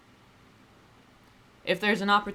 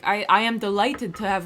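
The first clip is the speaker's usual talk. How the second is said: mock ChatGPT; 4 semitones higher, 5 dB louder than usual. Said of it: "Chat G P T would be like".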